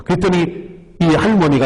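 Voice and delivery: usual speaking voice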